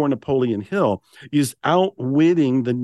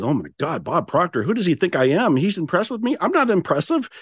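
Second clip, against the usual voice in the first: mildly intimidated self-doubt, pitch climbing toward the end; retold intimidation; 5 semitones higher than usual. Author recalling his reaction to meeting Bob Proctor, retold intimidation. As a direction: replay your old self-doubt, rising into higher disbelief. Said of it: "And I went through intimidation".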